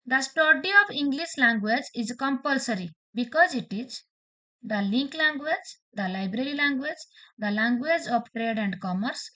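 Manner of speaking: very slow, spaced-out reading of the choices; reading exam options. Shown as a demonstration. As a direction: dictate each option slowly to students. Reads question and options. (ଧୀରେ ଧୀରେ ବିକଳ୍ପ ପଢ଼ିବା)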